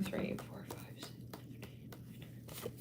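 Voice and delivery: whispered count trailing away; fading whispered count. Real, not acted. Counting cards aloud.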